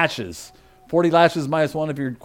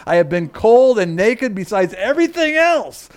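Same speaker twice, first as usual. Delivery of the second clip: emphatic scripture reading; 2 semitones higher, 4 dB louder than usual. Acted. Preacher reads Paul's list of dangers, emphatic and building. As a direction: hammer out each item of the list.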